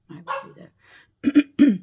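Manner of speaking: slow, loud call to someone in another room. Real, not acted. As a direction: call out high and long so they hear. Calls out to someone offscreen.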